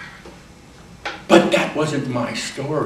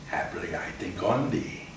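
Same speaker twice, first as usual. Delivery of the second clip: hushed whisper; 5 semitones lower, 11 dB quieter than usual. Shown as a demonstration. Actor reciting a sonnet, sudden whisper. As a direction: drop to a whisper.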